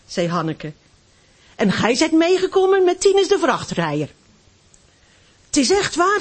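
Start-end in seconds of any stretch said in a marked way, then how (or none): 1.5-4.1 higher, louder mocking child's jeer; taunting schoolboy. Schoolboy mocking Hanneske on the playground, jeering. 5.5-6.2 higher, louder insistent schoolboy jeer; another taunting boy. Acted. A second boy insisting to Hanneske, mocking and loud. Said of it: "zei een ander".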